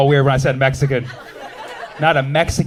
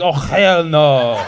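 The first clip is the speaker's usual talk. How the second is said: put-on slow, drawn-out Arab-accented oh hell no; 3 semitones lower, 3 dB louder, much slower than usual. Comedian's Arab side answers the racist woman, Arab accent. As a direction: let the Arab in him come out on hell no. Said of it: "the Arab came out".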